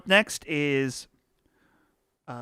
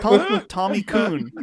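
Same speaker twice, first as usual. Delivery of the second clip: fake Japanese; 4 semitones higher, 5 dB louder than usual. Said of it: "this fake Japanese".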